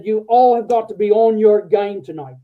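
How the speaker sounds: loud, rough Australian general addressing the room, mock Australian accent; a general barking orders in a hammed-up Australian accent; bad Australian accent. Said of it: "I'm gonna do a really bad accent".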